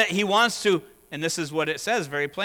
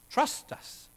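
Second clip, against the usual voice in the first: a hushed, breathy whisper. Retold or imitated. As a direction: lean in and whisper it. Voicing the crowd's plea.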